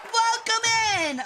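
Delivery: high bubbly welcome; cute anime streamer. Acted. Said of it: "I'm an Egyptian peregrine sun goddess".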